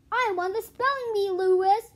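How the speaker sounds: loud, high taunt; gloating shout. Acted. John to Louis, loud gloating. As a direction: crow about winning.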